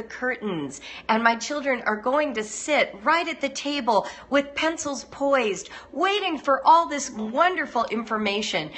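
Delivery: acted gushing, lilting pitch rises; starry-eyed enthusiasm. Parent jumping into homeschooling, gushing naive enthusiasm. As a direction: paint a rosy dream, carried away.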